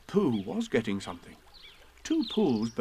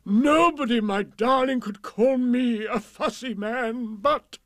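joyful; 12 semitones higher, 5 dB louder, slower than usual. Acted. King tender, happy.

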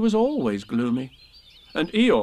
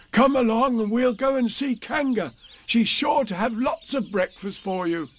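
lightly raised, friendly bear voice; kindly Pooh; 11 semitones higher than usual. A narrator's reading. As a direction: Pooh gently calling Tigger along.

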